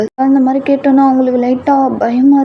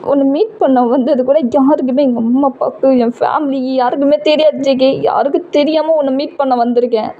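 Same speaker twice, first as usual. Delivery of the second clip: tearful pleading; 3 semitones higher than usual. Acted. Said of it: "அழுதுட்டே சொல்றீங்க".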